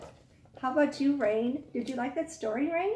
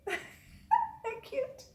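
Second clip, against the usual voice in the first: cooing; 14 semitones higher than usual. Real, not acted. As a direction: coo it sweetly. Teacher coos.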